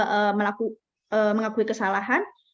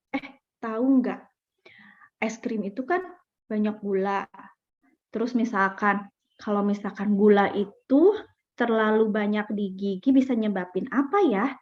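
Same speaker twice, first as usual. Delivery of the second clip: gentle explaining; 2 semitones lower than usual. Retold or imitated. Parent gently explaining to child.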